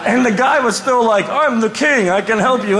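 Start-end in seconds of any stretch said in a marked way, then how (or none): 1.3-2.8 laughing mock boast. Mocking boastful guy, laughing.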